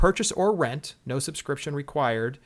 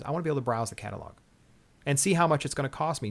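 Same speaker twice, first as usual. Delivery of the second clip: fast bitter rant; faster than usual. Real, not acted. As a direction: rush it out in exasperation. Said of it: "Do I sound bitter about this?".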